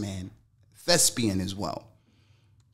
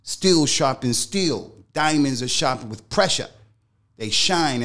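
self pep talk; 2 semitones higher, 4 dB louder than usual. Retold or imitated. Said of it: "I just kept telling myself".

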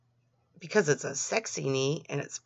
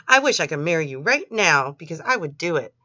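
louder, dramatic TV-narrator read; To Catch a Predator narrator; 5 dB louder than usual. Retold or imitated. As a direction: read it like the ominous show narrator. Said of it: "I read it in that narrator's voice from To Catch a Predator".

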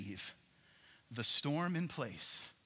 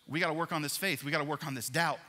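shouted over the storm, higher and louder; Jesus calling out; 6 semitones higher, 5 dB louder than usual. Acted. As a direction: call out to Peter through the wind.

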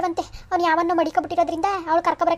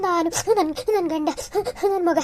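broken words between sobbing breaths; slower than usual. Acted. Daughter tells officer of husband and child, sobbing. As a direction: cry so hard only fragments get out. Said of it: "ಅಳೋದ್ ನಿಲ್ಸಮ್ಮ".

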